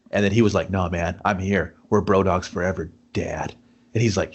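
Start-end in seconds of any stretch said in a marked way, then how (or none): 0.7-3.5 earnest reassurance. Retold or imitated. Friend pledging to stay by his side, earnest and low. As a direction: reassure him gently in a lowered voice. Acted reassurance after the confession.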